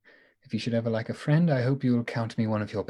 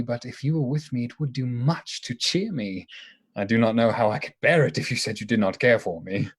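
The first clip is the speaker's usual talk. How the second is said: nervous suitor. Acted. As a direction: stumble through the declaration. Nervous suitor proposing, quoted.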